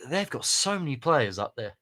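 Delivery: breathy whisper after a sigh; sigh, then whisper it. Real, not acted. Sighing aside about Spurs squad.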